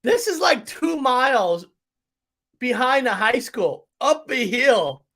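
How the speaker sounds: slow, winded after the long climb; out of breath. Real, not acted. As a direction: catch your breath between words, uphill. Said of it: "why I sound out of breath".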